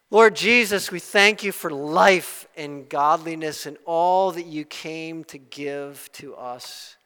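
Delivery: earnest pastor's prayer, rising and settling; closing prayer. Acted. Pastor praying for boldness for the congregation, earnest. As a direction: pray it over the church with conviction.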